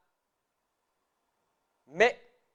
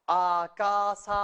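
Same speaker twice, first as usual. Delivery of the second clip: with rhythm; 4 dB louder than usual. Shown as a demonstration. Teacher drilling the hiragana columns, with rhythm. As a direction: recite AKASATANA rhythmically, each syllable held. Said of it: "Hasta ahí con ritmo".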